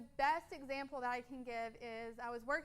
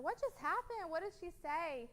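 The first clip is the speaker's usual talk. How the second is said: higher, puzzled retelling of her own confusion; bewildered question; 5 semitones higher than usual. Retold or imitated. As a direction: ask it like you just missed everything. Confused after host mom's outburst.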